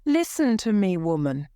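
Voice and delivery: a sharp rise on listen, then dropping on woman; scolding the doorkeeper, a touch of anger; angry command. Acted. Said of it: "his face was red and angry".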